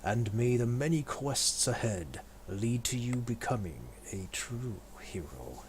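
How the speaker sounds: grand proclamation. Acted. Welcoming followers as adventurers.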